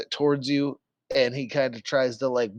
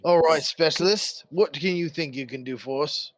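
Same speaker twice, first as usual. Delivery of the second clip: guard captain; 2 semitones higher than usual. Acted. Game master plays guard captain.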